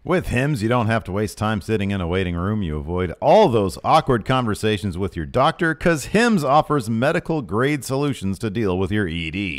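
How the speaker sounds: punchy sponsor pitch; ad read. Real, not acted. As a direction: lean on the brand and key words. Host continues sponsor ad.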